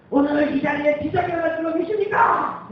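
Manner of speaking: booming revival preacher calling to the crowd. Retold or imitated. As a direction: belt it out like a tent-meeting evangelist.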